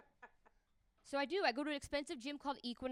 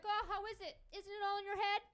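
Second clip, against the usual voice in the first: high, sugary mock concern; mocking sympathy; 9 semitones higher, 5 dB louder than usual. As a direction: coo fake sympathy at him. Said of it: "I'm like".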